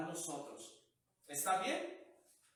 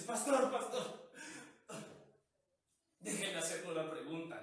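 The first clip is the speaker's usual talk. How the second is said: put-on drunk man. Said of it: "El borrachito le dice".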